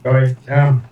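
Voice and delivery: talking with a mouthful of food; words round a mouthful of food; cheeks stuffed full. Real, not acted. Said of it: "got a mouthful of food".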